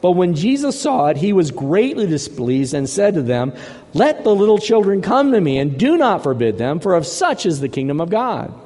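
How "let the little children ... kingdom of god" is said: forceful reading, strongest at the opening; forceful, passionate. Retold or imitated. Preacher voicing Jesus rebuking his disciples, forceful and passionate. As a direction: read it as an indignant rebuke, mildly acted. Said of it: "Jesus would have said this with force, with full passion".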